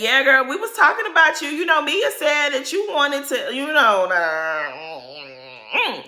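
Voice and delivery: mild mock of a catty friend; mocking Ashley. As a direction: imitate her fake-sweet gossip. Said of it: "to say".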